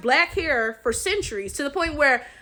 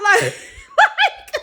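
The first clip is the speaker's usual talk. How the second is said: breaking into real laughter, much higher; laughing; 9 semitones higher, slower than usual. Real, not acted. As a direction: laugh through the words in disbelief. Laughing in disbelief mid-rant.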